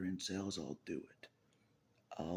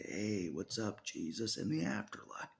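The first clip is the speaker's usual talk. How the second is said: much higher, bright mock-casual greeting; mock greeting to Jesus; 12 semitones higher, 3 dB louder than usual. To Jesus in the afterlife, a high mock-casual greeting. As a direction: chirp it up like a cheeky hello. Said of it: "I wake up and I say".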